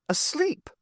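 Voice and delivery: high, rising disbelief; a sharp, surprised question; asleep, really?; incredulous. A narrator's reading. Incredulous question on seeing Lazy.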